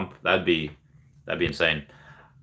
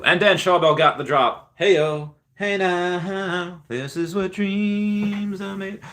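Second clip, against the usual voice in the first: hype celebration; 9 semitones higher, slower than usual. Acted. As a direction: cheer the viewer's win like a hype man. Celebrating a viewer's successful drop.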